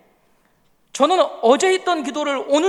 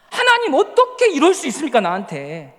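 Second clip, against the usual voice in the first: accusing lament; 3 dB louder than usual. Retold or imitated. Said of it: "이러고 끝난 거예요".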